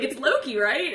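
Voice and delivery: amateur Australian impersonation; bad Australian accent. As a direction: badly imitate an Australian asking. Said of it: "the Australian accent".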